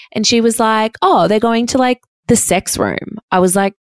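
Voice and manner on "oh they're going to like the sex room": lightly voiced friend, pitched up and slowed; a hint of the friend, breezy and matter-of-fact; casual friend voice. A friend tells her mate about the sex room, lightly voiced and pitched up.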